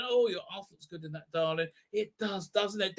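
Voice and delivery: lightly voiced camp flirting. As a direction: murmur a cheeky compliment. Flirty aside mid-escape.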